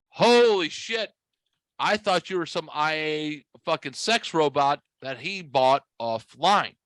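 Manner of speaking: high, drawn-out amazement; astonished. Retold or imitated. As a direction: stretch it out in mock awe. Retold shock seeing the wife.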